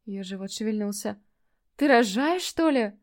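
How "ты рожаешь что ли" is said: higher and louder, startled; sudden realisation. Acted. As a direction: it just hits her. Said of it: "Дошло до меня".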